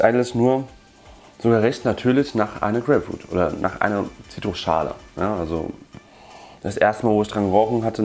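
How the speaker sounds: muffled by held container; speaking while sniffing tin; talking into tin at nose. Real, not acted. Seen 1: Tobacco tin held against nose and mouth, sniffing while speaking.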